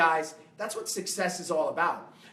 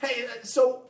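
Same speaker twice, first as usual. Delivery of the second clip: wealthy guy; 5 semitones higher than usual. Retold or imitated. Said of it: "this wealthy guy goes".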